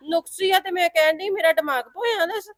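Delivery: mild tearful protest; half crying as you defend yourself. Acted. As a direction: sister protesting tearfully in the quarrel. Quarrel, tearful reply.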